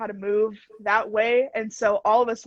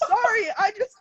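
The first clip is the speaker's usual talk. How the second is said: high, whiny fake-crying sorry; mock whimpering apology; 11 semitones higher, faster than usual. Student apologising to the teacher in mock tears, high and whiny. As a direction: plead pitifully, hammed up. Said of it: "I was like".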